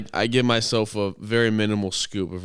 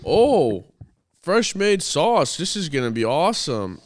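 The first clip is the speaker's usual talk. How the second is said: high, slow, gushing delight; excited quote; 6 semitones higher than usual. Retold or imitated. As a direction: gush over the sauce. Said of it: "all of a sudden I hear".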